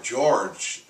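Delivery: a mild mock shout of his name; retold shout. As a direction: call his name sharply. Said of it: "I shouted".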